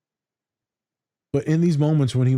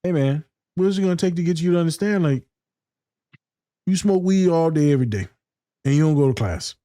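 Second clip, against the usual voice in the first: higher, fast, scolding counselor voice; a counselor scolding his client, quick and pitched up; tough counselor; 4 semitones higher than usual. Retold or imitated. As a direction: lay into the client like a tough coach. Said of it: "So I'm Ted in this moment".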